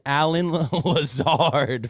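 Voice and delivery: trying to say the name through laughter; breaking into laughter. Real, not acted. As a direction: laugh while getting the name out. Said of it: "I can't even say his name without laughing".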